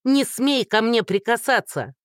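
woman screaming at a man reaching to hug her; yelling. A narrator's reading. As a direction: shout her away, keep him off. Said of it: "снова заорала Динка".

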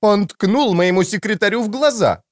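high-pitched, outraged accusation; high, aggrieved tattling; indignant complaint. A narrator's reading. Character's indignant complaint in story.

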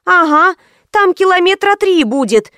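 high whiny complaint; whining. A narrator's reading. Karina complains to the boss about walking, high whine. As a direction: whine it like a spoilt girl. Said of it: "загундела Карина".

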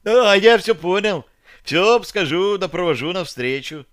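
high, eager trader; glad merchant voice. A narrator's reading. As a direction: pipe up gladly like a small merchant.

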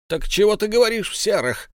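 high indignant outburst. A narrator's reading. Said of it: "возмутился Берт".

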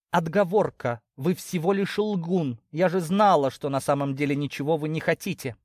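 high-pitched, offended retort; indignant accusation. Acted. Young ewe calling his lordship a liar, indignant.

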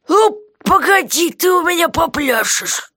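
high, slow threat; jailer's voice, grudging threat; vengeful jailer. Acted. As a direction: promise payback. Guard voiced by reader.

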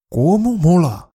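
thrilled by a perfect sword replica; enthusiastic exclamation. Shown as a demonstration. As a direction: burst out with joy at the sight. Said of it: "Fíjate en cómo cambia la entonación".

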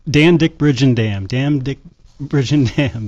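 Dan Dick Bridge and Dam laughed out, slow and tripping over Dam Dick; tongue twister attempt. Shown as a demonstration. Co-host dares him to repeat the name, laughing attempt. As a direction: stumble through the tongue twister while laughing. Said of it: "read it three times as fast as you can".

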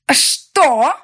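high, loud yelled question; yelling. Acted. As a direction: roar it in mock shock. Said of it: "заорала я".

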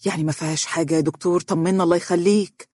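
fast, anxious pleading; eager. Acted. Father begging the doctor for news, fast and eager. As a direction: rush the question out, desperate for news. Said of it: "قال الأب بلهفة".

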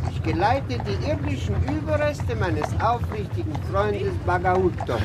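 put-on a drunk mourner booming at the street; drunk shouting. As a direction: bawl it out like a drunk at a funeral.

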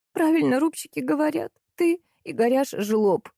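high indignant squeal easing down; sudden squeal. A narrator's reading. Salesgirl turns on her husband, squealing. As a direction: squeal the accusation at him. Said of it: "неожиданно взвизгнула девчонка".

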